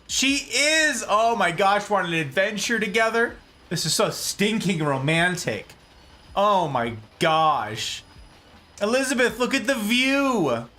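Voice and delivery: high, gushing and breathless; gushing excitement. Pretend. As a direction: swoon over the date like a teen. Gushing to Elizabeth on date.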